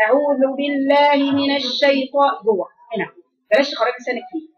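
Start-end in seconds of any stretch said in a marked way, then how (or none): 0.1-2.3 slow recited "أعوذ" with the ذ struck firmly inside; measured model of a firm, airless ذ in "أعوذ"; tajweed demonstration. Shown as a demonstration. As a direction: chant "أعوذ بالله من الشيطان", tongue kept in on the ذ. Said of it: "أخبطيه هنا جوه كده".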